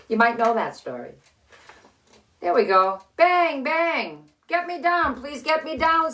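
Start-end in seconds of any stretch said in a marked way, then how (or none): 4.5-6.1 a hint of a pleading little man, a bit higher; lightly voiced little man. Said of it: "said the little man".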